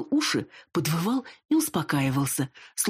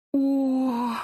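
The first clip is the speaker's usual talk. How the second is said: higher, sudden realizing oh; a bright startled oh; surprised; 10 semitones higher than usual. Acted.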